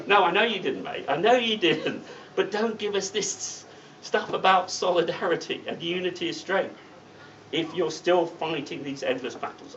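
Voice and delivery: high, laughing jab back at him; laughing retort. Retold or imitated. Speaker answers the union general secretary, laughing. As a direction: tease him through a laugh.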